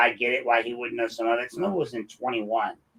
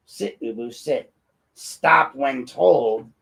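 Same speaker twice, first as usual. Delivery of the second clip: mock dog commands; much slower than usual. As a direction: bark out dog commands, mocking the mayor's obedience. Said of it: "he described as how he would sit when told".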